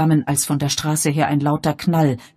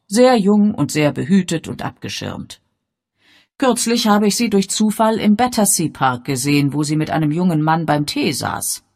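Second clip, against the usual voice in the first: raised, animated storytelling lady; Miss Marple; 4 semitones higher, 7 dB louder than usual. A narrator's reading. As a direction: confide it with emphasis, higher and louder. (lebhaft erzählende Dame, etwas höher)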